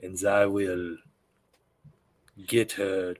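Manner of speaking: put-on French accent. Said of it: "I'm so bad at improv".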